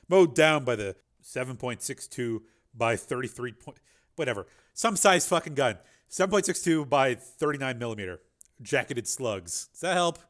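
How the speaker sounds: mock the gun jargon; exasperated aside. Real, not acted. Narrator mocks gun details.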